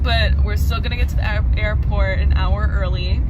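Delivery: loud voice over train noise; shouting on a subway. Real, not acted.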